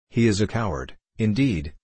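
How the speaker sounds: plain reading voice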